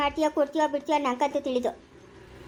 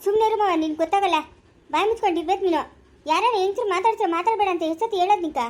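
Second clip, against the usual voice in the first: raised, indignant scolding; 2 semitones higher than usual. Acted. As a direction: tell him off and shut him up. Woman scolds meddling father-in-law.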